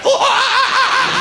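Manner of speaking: very high, loud monkey whoops; mock monkey calls with a banana; monkey noises. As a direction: hoot like an ape on a chair. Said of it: "on a chair with a banana going".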